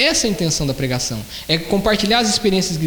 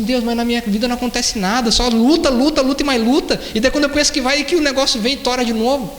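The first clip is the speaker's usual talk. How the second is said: higher-pitched whining to God; imitated complainer, pitched up and insistent; mock grumbling complaint; 5 semitones higher than usual. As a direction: act out an exasperated, piled-up lament. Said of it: "murmurando, reclamando".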